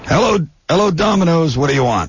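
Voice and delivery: low dude voice. Acted. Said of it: "The low voice".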